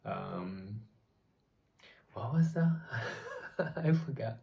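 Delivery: a quick unvoiced whisper, searching memory; whispering to herself. Real, not acted. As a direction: whisper the question to yourself. Trying to recall author's name.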